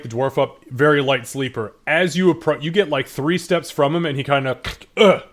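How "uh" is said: sudden throaty grunt on waking; loud, startled sleeper's grunt. Acted. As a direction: clear the throat as if jolted awake. Dwarf startled awake, acted.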